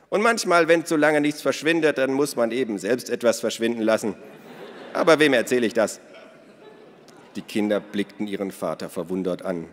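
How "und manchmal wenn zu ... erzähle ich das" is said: high, loud, cackling laugh in the words. Acted. Minna confides her trick, cackling. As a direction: cackle through the scheming line. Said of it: "Minna lachte gackernd".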